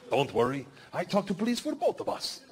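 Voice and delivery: lightly voiced gangster; Igor. Voicing Russian gangster Igor.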